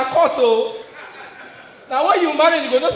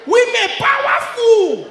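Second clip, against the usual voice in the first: mock awe; 8 semitones higher, slower than usual. Comedian telling the crowd women rule, in slow mock awe. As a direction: stretch it out in mock reverence. Comic punchline refrain.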